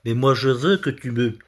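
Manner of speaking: lightly declaimed verse with long pauses; mock love poem. Comedian interpreting a man's love poem, mock-earnest recital.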